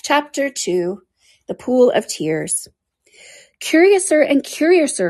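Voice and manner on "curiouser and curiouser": high, amazed cry; bewildered cry of surprise; cried out. A narrator's reading. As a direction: exclaim it in wonder. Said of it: "cried Alice".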